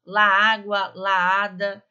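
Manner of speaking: "La água, la ada" spoken slowly so the words run together. Shown as a demonstration. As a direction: show how "la ada" blurs into one word. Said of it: "vou falar devagar". (falado devagar, as palavras se juntando)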